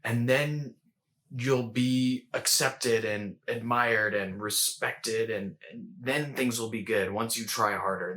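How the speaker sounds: slow, drawn-out inner critic; lightly voiced stern nag, words stretched slowly; shame voice. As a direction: press it slowly, like a critic in the head. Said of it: "And the shame voice is like".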